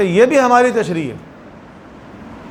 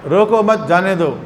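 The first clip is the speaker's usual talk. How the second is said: "روکو مت" as one phrase, then "جانے دو"; group روکو with مت, break, then say جانے دو; pause after مت. Shown as a demonstration. Teacher reading out the note on the slip, pausing after مت. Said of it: "اس سے معنی بالکل بدل جاتا ہے".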